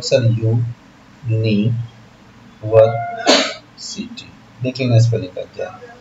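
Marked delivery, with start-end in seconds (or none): 0.0-4.3 यू नी वर सिटी split into separate syllables; mock student spelling out यू नी वर सिटी. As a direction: break यू नी वर सिटी into slow pieces like a student. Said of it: "तो आप बोलोगे".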